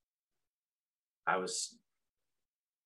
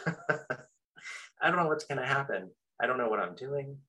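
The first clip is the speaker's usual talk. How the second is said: higher, louder, slow mock panic; 8 semitones higher, 6 dB louder, slower than usual. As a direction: replay the dread of being stranded, drawn out. Stranded at retreat, panicking.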